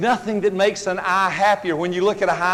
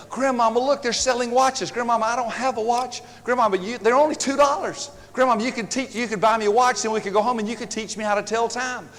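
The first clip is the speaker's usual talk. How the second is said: a lightly voiced pleading child, higher; begging little girl; 4 semitones higher than usual. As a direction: wheedle grandma for the watch. Granddaughter begging for a watch.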